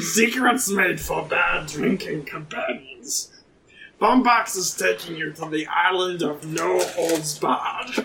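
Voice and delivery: slow, low-pitched captain voice; captain's character voice. Acted. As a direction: intone it slowly as the captain. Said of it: "let me try and do this voice".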